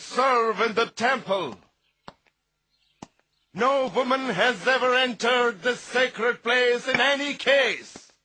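scandalised official laying down the rule; indignant objection. Acted. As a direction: object indignantly, pitch held high. Outraged objection to girl in temple.

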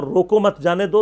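"روکو مت" run together, then "جانے دو"; pause after مت. Shown as a demonstration. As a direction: join مت onto روکو before releasing جانے دو. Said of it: "دو بالکل الگ الگ ہیں".

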